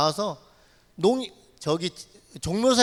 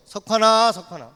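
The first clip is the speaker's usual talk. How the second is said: imitated calling out; 4 dB louder than usual. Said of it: "누가 저를 부르는 거예요".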